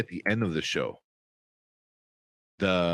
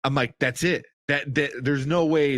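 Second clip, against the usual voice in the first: higher-pitched excited recounting; excited retelling; 5 semitones higher, 3 dB louder than usual. Retold or imitated. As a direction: relive the moment, voice lifted in disbelief. Excited retelling of a reaction to episode.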